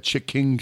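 "Chick King" as two separate words; split-word pronunciation. Real, not acted. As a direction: say "Chick King" with a full "king" ending. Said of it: "Why are you saying that like that".

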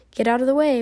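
sharp, loud command from an angry mother; stern order. Acted. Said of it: "my mother told him".

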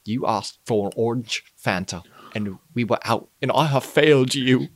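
grovel as the failed butler; fearful grovelling murmur. Pretend. Michael Caine impressions.

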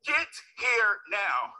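slow, firm demand; a hint of a stern grandmother. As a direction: lay down the law slowly. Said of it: "I hear my grandmother say".

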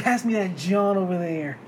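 slow, deliberate delivery, leaning on "John"; over-emphasized slang. Acted. Excited foreigner trying Philly slang, "John" given too much emphasis. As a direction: mimic a newcomer carefully landing "John" with extra emphasis. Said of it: "so much emphasis".

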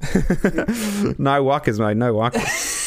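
put-on surfer signing off in a mild Australian accent; Australian slang. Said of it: "Australian bloody surfer".

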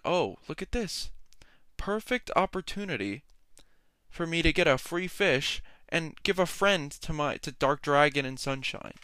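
excited inner voice. Retold or imitated. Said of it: "in my mind, I went".

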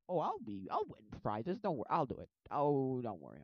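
loud, eager mock bravado; cocky volunteering. Sister volunteering for the game, overconfident. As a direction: brush off all doubts, loudly.

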